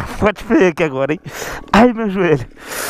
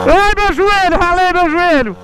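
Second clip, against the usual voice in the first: high pained cry; hit hard crying out; 8 semitones higher, slower than usual. Real, not acted. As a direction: cry out at a scraped knee. Crying out after scraping knee.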